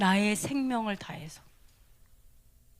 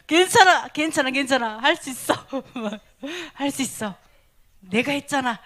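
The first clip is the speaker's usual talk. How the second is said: louder, cheering reassurance; encouraging; 2 semitones higher, 3 dB louder than usual. Acted. Preacher voicing the Lord cheering a believer on, bright and encouraging. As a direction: cheer someone on beside them.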